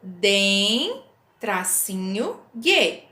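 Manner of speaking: Den, tracinho, gue spelled out syllable by syllable; syllable split. Shown as a demonstration. Teacher to pupils, splitting dengue into syllables. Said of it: "eu separei desta forma".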